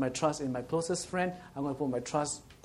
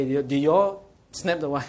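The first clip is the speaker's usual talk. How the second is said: stern question; 8 dB louder than usual. Retold or imitated. Man retold confronting the boys.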